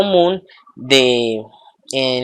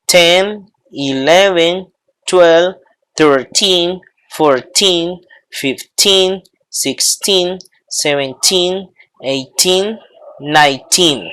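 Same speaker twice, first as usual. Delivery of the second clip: put-on "thirteen" to "nineteen" with a long, raised "teen"; stress on TEEN; 3 semitones higher, slower than usual. Shown as a demonstration. Teacher models the teens for students, measured counting. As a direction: count word by word, leaning on "teen". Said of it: "el acento recae acá".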